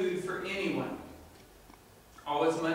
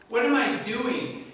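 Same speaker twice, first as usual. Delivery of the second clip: louder, desperate cry; anguished outburst; 3 semitones higher, 5 dB louder than usual. Acted. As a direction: shout it at yourself in despair. Son comes to his senses.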